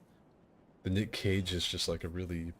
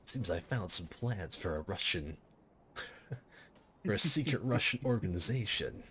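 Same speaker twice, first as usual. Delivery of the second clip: Snake voice. Retold or imitated. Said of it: "I can't get the Snake voice down".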